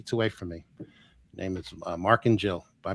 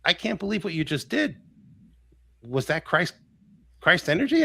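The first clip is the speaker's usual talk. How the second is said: higher-pitched, halting imitation of a crying man; retold tearful awe; 6 semitones higher than usual. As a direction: lightly imitate an overwhelmed man in tears. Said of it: "He's just crying hysterically".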